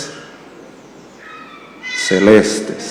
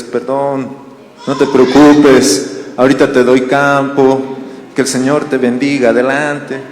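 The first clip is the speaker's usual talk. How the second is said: mock polite reply. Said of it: "¿Alguien reacciona así?".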